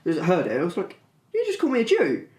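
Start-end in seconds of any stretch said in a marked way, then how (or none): 1.3-2.3 high-pitched, incredulous retort; retold shock. Man retells confronting a child who insulted him, shocked disbelief. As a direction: re-enact baffled disbelief, half laughing. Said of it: "I was in absolute shock".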